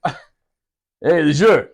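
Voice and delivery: imitated Boston Marine calling out; Boston accent. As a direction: call the name in a Boston accent. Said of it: "he's from Boston".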